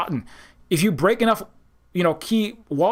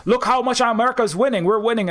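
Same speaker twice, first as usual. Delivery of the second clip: mock boast; 5 semitones higher than usual. Trump bragging, mocked.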